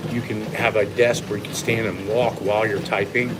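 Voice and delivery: talking while walking on a treadmill; a little breath from walking on an incline. Real, not acted. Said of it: "the speed I'm going right now or the incline".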